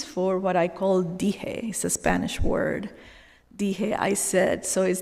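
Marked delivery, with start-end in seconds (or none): 1.0-1.7 Spanish pronunciation of "dije" as DEE-heh; Spanish accent. Shown as a demonstration. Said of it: "in my awesome Spanish accent". 3.6-4.0 slow Spanish "dije", DEE-heh; Spanish accent. Shown as a demonstration. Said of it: "in my awesome Spanish accent".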